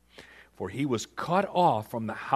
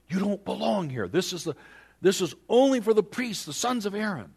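respectful but firm; 9 semitones higher, 6 dB louder than usual. Acted. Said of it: "but yet respectfully".

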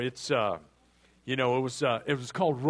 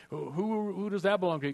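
pitched up, wide-eyed awe; amazed question; 5 semitones higher than usual. Acted. Rancher stunned at his new estate, asking in awe. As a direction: Hank gawking at land he owns.

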